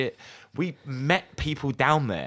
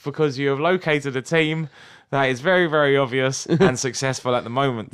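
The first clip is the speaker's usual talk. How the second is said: mock quiz host; 4 dB louder than usual.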